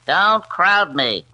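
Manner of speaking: slow menacing warning. Acted. Gangster warning the detective.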